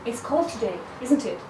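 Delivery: "isn't it?" falling at the end; falling intonation. Shown as a demonstration. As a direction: let "isn't it?" drop as a sure statement. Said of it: "different intonation".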